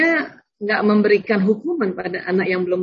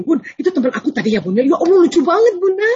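put-on fast, much higher and louder gushing child; a child gushing to her mother about a friend; chatty excited child; 6 semitones higher, 3 dB louder than usual. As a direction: burst out with excitement like a chatty kid. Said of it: "Kan gini".

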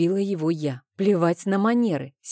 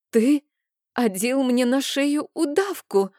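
holding back tears; 7 semitones higher than usual. A narrator's reading. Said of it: "сдерживая слёзы".

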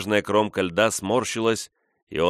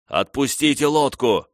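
high, loud shouted order; shouting; 7 semitones higher, 5 dB louder than usual. A narrator's reading. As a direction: bark the command over the noise. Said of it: "крикнул".

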